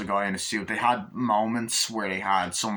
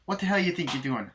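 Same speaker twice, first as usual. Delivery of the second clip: retold scolding; 7 semitones higher than usual. Adult scolding child in retold scene.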